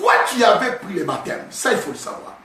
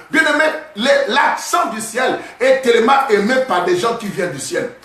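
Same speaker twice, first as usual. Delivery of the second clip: fiery preaching; 3 semitones higher than usual. Acted. Preaching at full force.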